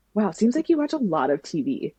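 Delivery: lightly imitated teasing remark; a touch of mock amazement. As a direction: retell it as a mild schoolyard taunt. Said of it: "he was making fun of me".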